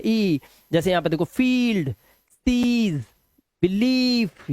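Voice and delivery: drawn-out ee in फील्ड, सीज, बिलीफ; long vowel. Shown as a demonstration. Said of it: "long vowel sound आ गया". (फील्ड, सीज, बिलीफ में लंबी ई)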